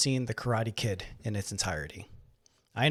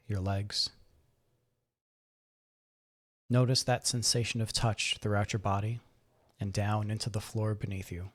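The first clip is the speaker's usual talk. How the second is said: guided meditation. Acted. Guide helps listeners settle into the chair and breathe, calm meditation voice. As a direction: gently talk them into relaxing.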